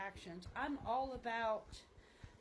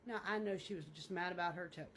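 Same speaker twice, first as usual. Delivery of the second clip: lower, quick, unbothered shrug-off; understanding friend; 5 semitones lower, faster than usual. Acted. Real friend excusing her outburst over a toe, unbothered. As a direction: brush it off as a forgiving friend would. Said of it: "you're just gonna be like".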